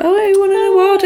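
high-pitched, questioning surprise; mum's pleased surprise. Retold or imitated. Mum to son on finding his school award, retold surprise. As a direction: imitate a mum's impressed question.

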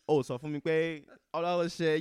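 lightly imitated Yoruba father; dad's Yoruba accent. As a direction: scold with a hint of a Nigerian dad's accent. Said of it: "I have to speak it in Yoruba".

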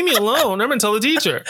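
put-on high, whiny tattletale child; whiny schoolkid. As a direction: whine like a kid threatening to tell. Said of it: "and you're like".

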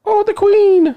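high, loud gasp at the queen; mock surprise. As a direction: exclaim it in mock shock.

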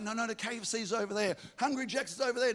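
mock insistent followers; disciples insisting. Disciples point Jesus to the food, eager and high. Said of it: "And they're like".

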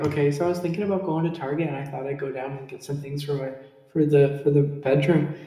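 fast, light North Dakota accent. Shown as a demonstration. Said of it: "You'd be like".

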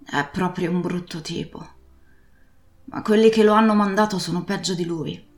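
loud, pressing sea captain giving orders; urgent old pirate. Acted. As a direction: send the boy off urgently. Captain urges Jim to ride.

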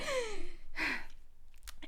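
high, soft mock sob; imitated sobbing gasp. Retelling a crying stranger at Kohl's, imitated sobbing gasp. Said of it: "sobbing, uh, like, crying".

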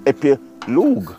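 "epilogue" with a drawn-out "-loog" ending; made-up epilogue pronunciation. Shown as a demonstration. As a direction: end "epilogue" on a long oo, "epi-loog". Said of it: "I can create the law".

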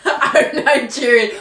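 slow put-on Nigerian accent; jokey, drawn-out Nigerian accent; mock Nigerian accent. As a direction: drawl it in a fake Nigerian accent. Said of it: "Oh, I sounded like an accent".

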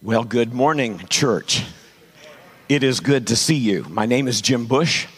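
hoarse, worn-out voice; gravelly voice. Real, not acted. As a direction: speak through a lost voice. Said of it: "I apologize for the gravelly voice".

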